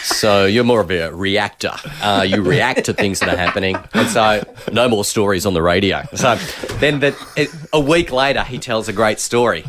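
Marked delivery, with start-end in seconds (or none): 0.0-6.0 measured program director giving feedback; boss voice. Acted. Program director banning stories on air, lightly put-on boss voice. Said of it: "you put the voice on".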